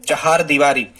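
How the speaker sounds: चहार दीवारी with full long aa, cha-haar; teacher models चहार दीवारी as the answer; model answer, clearly said. Shown as a demonstration. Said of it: "क्या होता है सही?".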